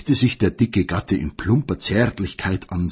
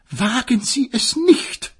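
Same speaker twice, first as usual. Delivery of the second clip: mock gnashing retort. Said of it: "knirschte sie".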